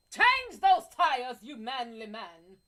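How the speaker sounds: loud, slow hammed-up order; mock doting command. Telling the guy to change the tires, hammed-up. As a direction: boss him sweetly. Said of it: "You tell him".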